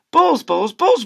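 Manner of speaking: loud, high frantic shouting of balls; frantic yelling. Acted. Teacher yelling in frenzy.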